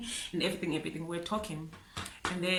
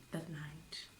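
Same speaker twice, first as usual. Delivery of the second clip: much softer, whispered, trailing; grieving whisper; 3 semitones lower, 13 dB quieter than usual. Real, not acted. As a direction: let the words die into a whisper. The feeling of that night.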